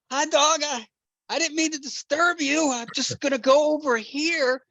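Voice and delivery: high, sing-song voice for a dog; childish baby talk. Retold or imitated. Narrator nervously baby-talking a growling basset hound, high childish voice. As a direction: coo at the dog like it's a toddler. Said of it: "a childish conversation with this giant basset hound".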